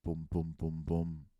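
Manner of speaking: low, soft, evenly spaced booms; quiet, low knock imitation; imitated door knock. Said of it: "You get a knock at your door".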